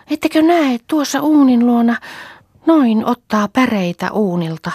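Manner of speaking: put-on high, loud eager child's cry; a little girl pointing, thrilled; small daughter calls out, sure she sees mother; excited child.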